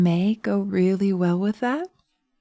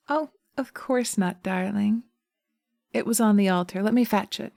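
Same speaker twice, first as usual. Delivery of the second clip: lightly voiced companion witch, eager to please; obliging witch; 2 semitones higher than usual. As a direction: answer sweetly as the helpful sister witch. Second witch Penelope answers.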